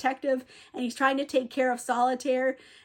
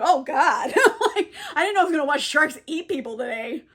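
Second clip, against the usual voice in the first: laughing horror; 2 semitones higher, 4 dB louder than usual. Retold or imitated. James horrified at shark attack.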